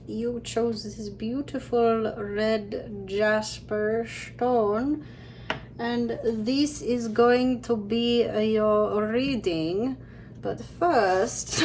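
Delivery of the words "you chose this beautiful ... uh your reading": a slow, drawn-out mystical reader voice; slow, dreamy announcer read for the stone; lightly put-on slow voice for the reading; odd put-on voice. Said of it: "I don't normally talk like that".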